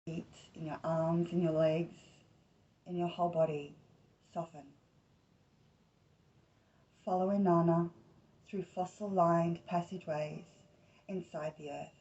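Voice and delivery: unhurried meditation voice, short phrases with long pauses; guided meditation. Acted. Host leading listeners into Inanna's underground journey, guided meditation.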